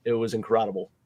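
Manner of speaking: strained, hoarse, worn-out voice. Real, not acted. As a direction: talk through a voice shouted raw. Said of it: "I, I have no voice".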